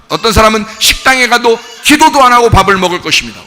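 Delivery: ordinary talk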